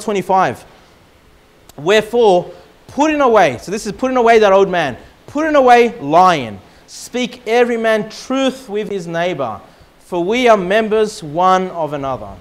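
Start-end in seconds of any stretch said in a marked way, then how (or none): 1.8-12.3 scripture reading. Acted. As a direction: read it like Scripture from the pulpit. Reads scripture aloud.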